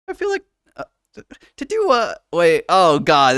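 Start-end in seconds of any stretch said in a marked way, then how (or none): 0.1-2.2 attempted Irish accent. Shown as a demonstration. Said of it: "this is gonna be terrible".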